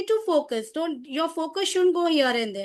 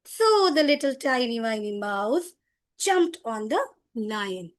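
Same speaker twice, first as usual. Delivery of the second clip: drawn-out storyteller narration; slow, playful story voice; storytelling; 5 semitones lower, slower than usual. Shown as a demonstration. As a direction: stretch the words out for young listeners.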